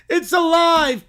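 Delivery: high, loud mad-scientist cry; excited cry. Acted. Villain seeing the chair wake up, excited.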